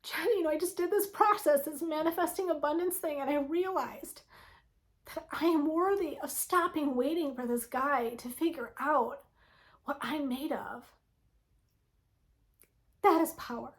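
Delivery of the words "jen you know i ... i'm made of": lightly voiced grateful client, higher and softer; a hint of the woman's voice, lifted pitch; quoting a client. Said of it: "I just today had a woman say".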